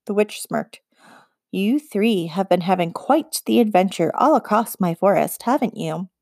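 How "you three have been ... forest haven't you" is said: icy. Acted. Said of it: "she said icingly".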